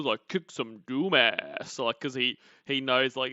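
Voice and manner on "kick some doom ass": slow, smug wannabe-cool drawl; mocking her boyfriend's try-hard slang; mock cool guy. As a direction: parrot his try-hard cool line. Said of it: "he tries to be cool".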